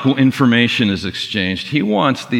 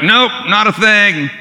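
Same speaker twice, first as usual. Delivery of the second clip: dejected reply; 10 semitones higher, 4 dB louder than usual. Retold or imitated. Fishermen answering, dejected.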